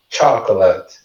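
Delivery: chocolate as "CHOK-lat"; stress on CHO. Shown as a demonstration. Teacher pointing at the stress mark, chocolate stressed on CHO. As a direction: hit the first syllable of chocolate. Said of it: "aqui tá antes do cho".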